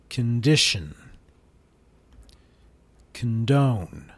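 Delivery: each "con" said as kən, stress after; slow list, reduced "con" in every word; schwa con words. Shown as a demonstration. Teacher reads the con word list slowly. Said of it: "here's how it is".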